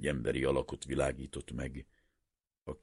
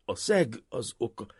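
almost apologetic; 8 semitones higher, 7 dB louder than usual. A narrator's reading. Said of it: "a hangja majdnem bocsánatkérő volt".

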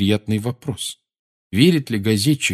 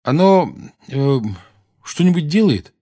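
put-on doubtful boy; 5 semitones higher, 4 dB louder than usual. Harry voiced, dubious.

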